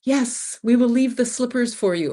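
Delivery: high, sweet mock politeness; overly polite quote. Imitating a polite Japanese host declining an invitation, high and sweet. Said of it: "like they said".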